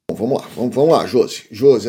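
ordinary talk

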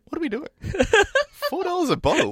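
high, outraged mock customer voice; shocked at the price; exasperated customers. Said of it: "everyone's just gonna turn around and go".

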